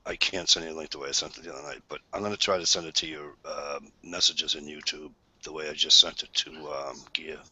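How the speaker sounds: husky, smoky speaking voice. Real, not acted. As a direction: talk with a smoky rasp. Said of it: "this sexy, smoky voice going on tonight".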